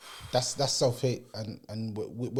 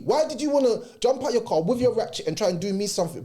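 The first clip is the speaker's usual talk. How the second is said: much higher and louder exasperated protest; indignant rant; 12 semitones higher, 5 dB louder than usual. Retold or imitated. Man relives protesting to the driver with the weapon, indignant rant. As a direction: vent it like you're still wronged.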